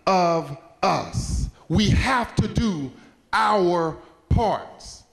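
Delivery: slow, deliberate oratory with spaced words; emphatic moral. Real, not acted. Speaker giving the audience the moral, slow and emphatic. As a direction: drive it home word by word, slowly.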